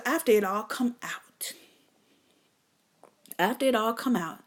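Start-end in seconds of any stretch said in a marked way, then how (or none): 0.0-1.5 whisper. Real, not acted. Comedian whispering it to the crowd, then repeats it.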